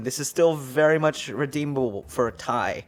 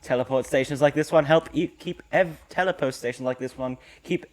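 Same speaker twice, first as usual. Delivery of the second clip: character voice; 4 dB louder than usual. Acted. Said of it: "You gonna put on your voice?".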